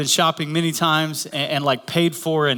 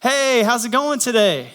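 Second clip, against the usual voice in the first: higher, drawn-out mock yell; retold yell; 6 semitones higher than usual. Wife leans over to the drive-thru speaker, mock yelling. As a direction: imitate calling slowly into a microphone. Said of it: "yells into the microphone".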